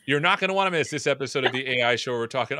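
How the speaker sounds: upbeat promo announcer read; first try at the show teaser; show intro read. Shown as a demonstration. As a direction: hype the episode like a trailer. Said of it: "intro take".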